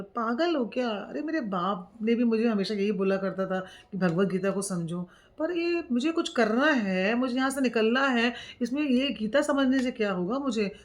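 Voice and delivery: a frustrated son brushing off advice; impatient youth protesting; agitated son. Retold or imitated.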